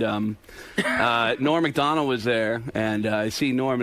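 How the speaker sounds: ordinary talk, nothing marked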